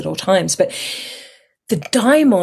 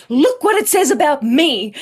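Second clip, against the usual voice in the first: higher, laughing mock indignation; huffy, laughing; 8 semitones higher than usual. Showing mum the textbook, laughing in a mock huff. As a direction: complain while giggling at yourself.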